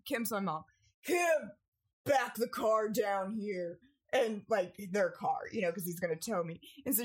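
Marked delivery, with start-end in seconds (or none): 1.0-3.8 raised call, words drawn out slowly. Retold or imitated. Dad calling to his wife outside, raised slow call. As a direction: call to her across the yard.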